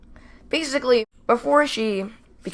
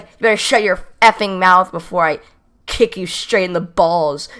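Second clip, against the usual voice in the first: mock-angry threat, louder then slowing; 5 dB louder than usual. Girl threatening to kick the teller, mock-angry threat. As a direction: imitate an irate classmate, stretching out the ending. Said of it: "she starts swearing at me".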